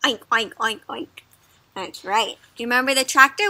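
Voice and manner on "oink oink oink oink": pig oink. Shown as a demonstration. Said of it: "What does a pig sound make".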